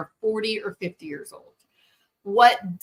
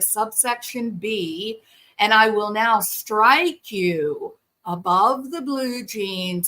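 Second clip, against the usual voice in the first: mock calm parent. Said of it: "it is rare for a parent to say".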